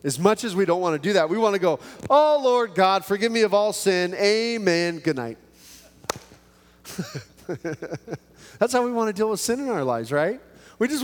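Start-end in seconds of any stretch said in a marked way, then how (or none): 2.1-5.4 high, breezy throwaway prayer; rushed mock prayer. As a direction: toss off a prayer to get it over with.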